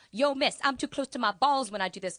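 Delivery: put-on loud, brash teenage complaint; cocky teen student. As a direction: whine it like a cheeky kid. Voicing Lejean mid-stretch.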